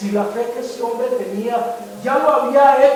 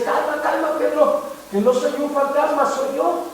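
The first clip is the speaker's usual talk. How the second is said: higher, gentle reassurance; calming Jesus; 3 semitones higher than usual. Retold or imitated. Jesus calming a frightened Pedro, lightly voiced. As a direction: soothe a frightened friend. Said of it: "el Señor Jesucristo le dice".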